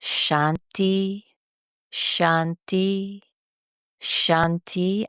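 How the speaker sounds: measured, evenly spaced mantra word; mantra repetition. Shown as a demonstration. Meditation teacher demonstrating a mantra on mala beads, measured repetition. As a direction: repeat it steadily, pausing between each. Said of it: "we'll say the word".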